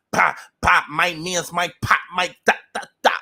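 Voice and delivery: lightly voiced New York rap boast; a hint of a rapper. Vlogger mimicking a singer's New York tough talk, lightly. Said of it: "very Remy Ma".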